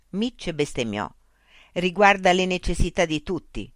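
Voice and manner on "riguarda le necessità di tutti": louder angry shout. Acted. Mitch shouting at the loudspeaker, angry shout. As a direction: yell it at the machine. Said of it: "gridò".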